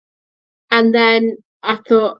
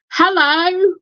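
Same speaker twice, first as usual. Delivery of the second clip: growly dinosaur voice; 9 semitones higher than usual. Retold or imitated. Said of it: "it sort of says it in, like, a growly voice".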